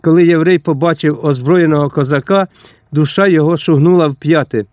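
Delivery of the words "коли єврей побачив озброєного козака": ordinary delivery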